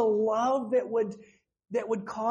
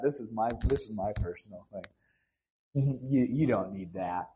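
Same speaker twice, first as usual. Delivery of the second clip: low, fast possessive brush-off, a touch playful; mock stingy god; 4 semitones lower than usual. Preacher mimics a God holding out, lightly voiced and low. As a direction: hoard it with a smug chuckle.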